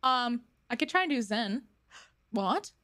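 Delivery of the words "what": monotone Zen voice. Retold or imitated. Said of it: "but I can do the monotone".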